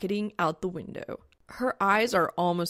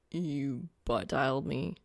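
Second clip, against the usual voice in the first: low guy voice; 5 semitones lower than usual. Acted. Soul's lower voice.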